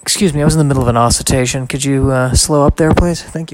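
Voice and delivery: fast, mock-prim excuse me; a prim joke about yawning; mock polite. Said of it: "Ooh, I like that".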